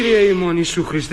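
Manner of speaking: slow, drawn-out exclamation of dismay; appalled exclamation. Acted. Master appalled to find the girl in the house, aghast. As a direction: call on heaven in comic horror. Appalled at her being there.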